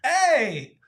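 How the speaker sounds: high, drawn-out delighted exclamations; delighted whooping. Real, not acted. Host to co-host offering to do the M part, delighted whooping. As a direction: whoop with delight, stretching the words out.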